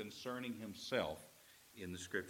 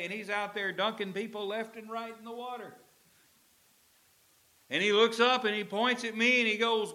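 higher, louder fervent Jesus voice; Jesus pleading; 9 semitones higher, 8 dB louder than usual. Acted. Jesus urging the Emmaus disciples, higher and fervent.

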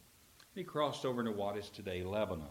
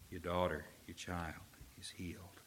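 hushed blessing; 4 semitones lower, 9 dB quieter than usual. Acted. Jesus grants healing.

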